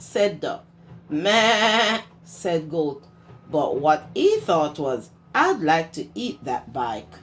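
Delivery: lively storybook read-aloud; reading to children. A narrator's reading. Teacher reading Duck on a Bike to her class, lively storytime voice.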